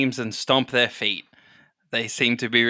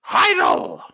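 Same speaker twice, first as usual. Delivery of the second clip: high, slow announcer shout; arena announcer; 4 dB louder, slower than usual. Acted. Announcer introduces the contestant from Pound Town, high drawn-out shout. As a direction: stretch it high and shout the name.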